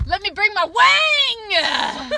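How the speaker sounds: slow, high laughing yell; mock shout. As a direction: yell it while cracking up. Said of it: "I totally thought you were gonna be like".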